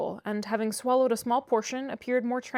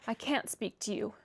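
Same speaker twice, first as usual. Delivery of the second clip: much softer, weak murmur; 8 dB quieter than usual. A narrator's reading. Sick Linton refusing to answer Catherine, soft murmur. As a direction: barely get the words out. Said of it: "he murmured".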